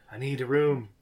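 man doing a woman's voice. Retold or imitated. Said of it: "a lady voice saying".

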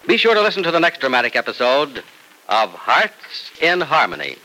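dramatic radio narrator; solemn serial wrap-up; old radio announcer. Acted. Announcer closes the episode.

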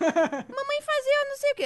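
put-on high, slow toddler voice saying "fazeu". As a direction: mimic a little girl's cute mistake "Mamãe fazeu". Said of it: "ela fazendo que a mamãe fazeu". (imitando a filha pequena, aguda e lenta: "Mamãe fazeu")

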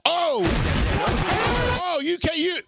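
high, heated mocking rant. Real, not acted. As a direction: taunt with rising heat.

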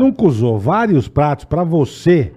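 slow, drawn-out promo pitch; ad read. Acted. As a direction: sell the offer, stretching the key phrases. Co-host delivers sponsor offer.

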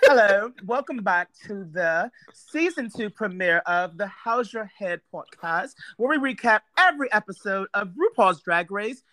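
podcast welcome in a put-on British accent; fake British accent. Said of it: "who has the best fake accent?".

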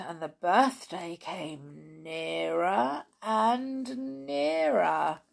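drawn-out, very slow storybook build; slow suspenseful narration. A narrator's reading. Reader building suspense toward the birthday, slow drawn-out narration. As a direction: stretch the waiting out.

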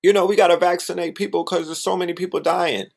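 quick, high sing-song parody of doctors; hammed-up phony sympathy; mocking fake concern. Mocking doctors who push vaccines, fast fake concern. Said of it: "this fake ass".

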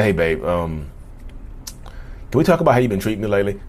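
quick, hesitant complaint to partner. Retold or imitated. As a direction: bring it up nervously. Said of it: "Different tone".

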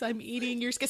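lilting, eerie monster sing-song; creepy sing-song voice. Retold or imitated. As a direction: croon it like a creepy ghoul. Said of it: "in a creepy sing-song voice".

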